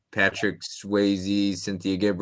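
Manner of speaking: slowly, spelling out the clue names; slow repeat. Shown as a demonstration. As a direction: drag the names out for clarity. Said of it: "repeats clue slowly".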